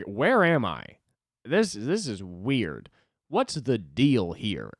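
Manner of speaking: mock bewildered. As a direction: play a lost, baffled tourist. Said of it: "was acting like he was in Uganda".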